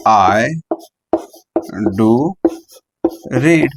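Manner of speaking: "do" set apart and stressed. Shown as a demonstration. Teacher demonstrating emphatic do read. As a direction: give "do" its own beat. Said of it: "कैसे बोलेंगे इस बात को".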